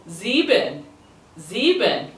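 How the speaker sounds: sieben starting with a buzzed "zee"; zebra-like start. Shown as a demonstration. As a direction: begin sieben like zebra, ending in "ben". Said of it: "Think you're about to say zebra".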